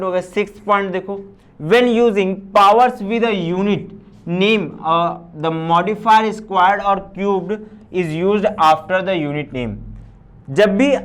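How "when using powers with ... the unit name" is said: reading a rule word by word, very slow; slow read-aloud. Acted. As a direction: dictate the English rule slowly to the class. Reads rule aloud slowly. (नियम को बहुत धीरे पढ़कर सुनाना)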